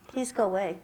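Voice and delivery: soft, low, unconvincing plea; meek request. Shown as a demonstration. Teacher showing what nobody would take seriously, meek and soft. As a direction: say it weakly, under your voice. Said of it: "But if we go".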